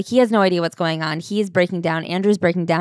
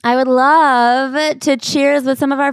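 playful gush; 6 semitones higher, slower than usual. Real, not acted. Cheering listeners affectionately.

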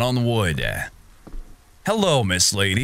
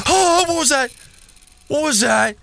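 high, loud startled question; spooked and jumpy, voice way up; frightened gasp; 5 dB louder than usual. Real, not acted. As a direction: gasp and ask in real alarm. Jump scare in horror game.

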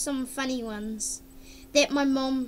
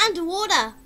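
excited gasp; 6 dB louder than usual. Real, not acted. Discovering new effect.

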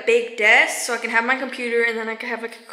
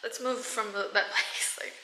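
whispering; 3 semitones lower, 13 dB quieter than usual. Real, not acted. Drops voice to whisper.

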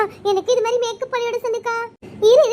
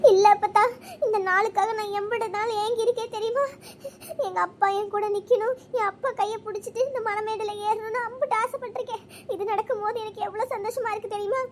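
happy tears. Acted. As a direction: pour out a long-held wish through tears. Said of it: "அதுக்கே கண்ணை கசிட்டு இருக்க". (ஆனந்தக் கண்ணீருடன்)

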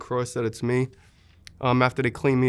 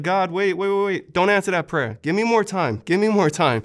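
much higher, pleading, a touch louder; retold urgent plea; 6 semitones higher, 3 dB louder than usual. Soldier remembering his girlfriend, urgently begging God for time. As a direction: stop God mid-prayer, urgent and high.

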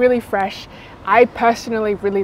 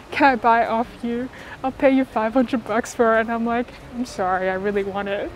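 muffled behind surgical mask; speaking masked outdoors; through a face mask; 4 semitones higher than usual. Real, not acted. Seen 2: Blue mask covers mouth and nose throughout; absent in R1, R2.

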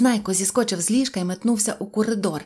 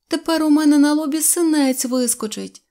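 put-on high, loud girlish complaint; upset outcry; 6 semitones higher, 7 dB louder than usual. A narrator's reading. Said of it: "закричала вона". (обурений крик)

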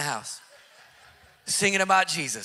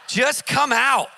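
firm command; 5 semitones higher, 6 dB louder, slower than usual. Retold or imitated. Pastor commanding the demon.

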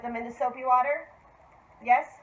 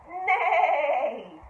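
horse neigh; 4 semitones higher than usual. Shown as a demonstration. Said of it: "Can you say".

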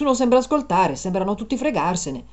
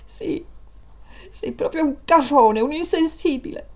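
crying; 6 semitones higher than usual. Acted. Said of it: "Adesso piangi?".

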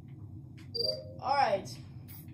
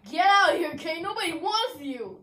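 taunting; 4 semitones higher, 5 dB louder than usual. Real, not acted. Taunting kicked player.

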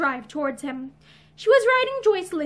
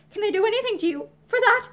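higher, anxious shaky question; 6 semitones higher than usual. A narrator's reading. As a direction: ask it with a slight tremble. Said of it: "Violet asked shakily".

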